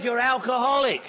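loud, blunt accusation; shouted accusation. Retold or imitated. Man in his face at a meeting shouting the accusation. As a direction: bark it right in his face.

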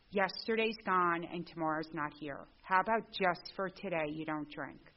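slow, patient, gentle advice. Retold or imitated. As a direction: ease them into it slowly. Old sponsor gently advising.

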